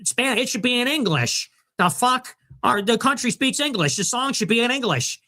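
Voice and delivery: high-pitched mock complainer; mock outrage. Host parroting angry halftime show complainers, high mock outrage. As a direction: whine it high, like an indignant viewer.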